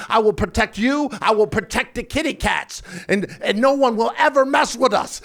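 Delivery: mock-heroic vow; mildly fired-up pledge; retold excitement. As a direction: declare it like an eager protector. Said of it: "I got excited".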